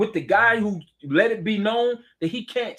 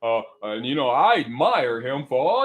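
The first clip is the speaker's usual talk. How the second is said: mock Trump voice; 5 semitones lower than usual. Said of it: "mock Trump praising Putin".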